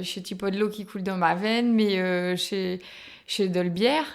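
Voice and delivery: speaking in a Ch'ti accent from the North; northern French Ch'ti patois. Shown as a demonstration. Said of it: "Tu sais le dire, ça, en ch'ti?".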